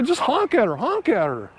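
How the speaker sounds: high-pitched retold nagging, falling at the end; imitated urging. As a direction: egg the driver on, mimicking impatient friends. Retold friends urging him to honk.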